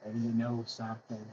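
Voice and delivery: low, slow, soft put-on bass; mock deep voice. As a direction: drop way down into a weary, exaggerated deep drone. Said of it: "I don't have to have a damn deep voice".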